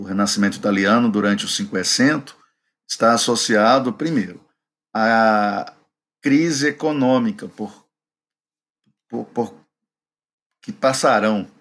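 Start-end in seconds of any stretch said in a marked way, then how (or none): 6.2-9.5 choking. Real, not acted. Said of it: "aí eu me engasguei".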